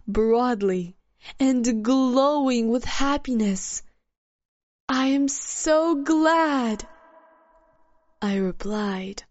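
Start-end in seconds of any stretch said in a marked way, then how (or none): 4.9-6.9 glad. Acted. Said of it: "feeling the woman's emotions pass to me".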